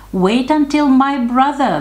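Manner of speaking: high, loud, urgent bargaining; little goat pleading. A narrator's reading. Youngest goat bargains with the troll, high pleading. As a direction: hurriedly plead in the tiny goat voice.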